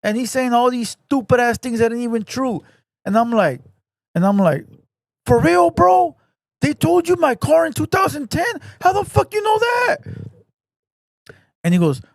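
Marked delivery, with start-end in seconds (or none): 5.3-10.0 high, loud fake astonishment at the bluffer; mock amazement. Egging on the bluffing caller with loud mock amazement. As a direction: overplay the shock to egg him on.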